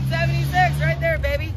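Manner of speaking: loud, high rallying cry; excited cheer. Real, not acted. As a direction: shout it out like a cheer. Cheering slogan at farewell.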